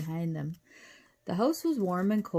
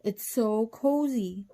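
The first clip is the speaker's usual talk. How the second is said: gushing; 4 semitones higher, 3 dB louder, slower than usual. A narrator's reading. Cheyenne admires the cozy house.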